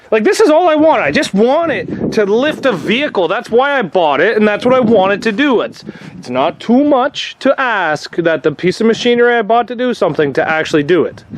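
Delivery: exasperated rant, pitch jumping high; frustrated complaining, building up; worked up. Real, not acted. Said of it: "getting a little worked up here".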